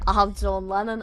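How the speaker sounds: put-on Liverpool accent; John Lennon. Shown as a demonstration. Reader finding the accent again, Liverpool accent. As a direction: reset into Scouse with a catchphrase. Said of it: "get back into my fucking accent".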